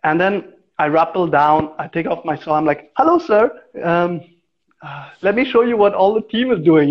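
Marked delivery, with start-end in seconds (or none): 3.0-6.9 higher, sweetly polite voice to the client; polite cover-up greeting to the client after swearing; overly polite. Retold or imitated. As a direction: act like nothing happened, all courtesy. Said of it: "act like nothing happened".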